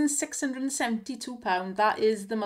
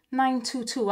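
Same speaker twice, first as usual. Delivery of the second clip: out of breath. Real, not acted. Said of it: "I'm out of breath".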